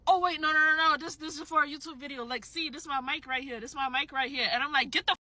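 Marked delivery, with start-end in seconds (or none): 0.1-4.5 hurried, higher-pitched protest at first; imitated flustered man. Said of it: "And he was like". 4.9-5.2 firm, mildly angry brush-off; retold curt dismissal. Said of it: "I say it just like that".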